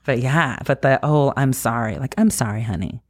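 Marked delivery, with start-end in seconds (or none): 1.3-3.0 low gentle apology to yourself; tender apology. Retold or imitated. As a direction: comfort yourself like a child. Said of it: "to yourself".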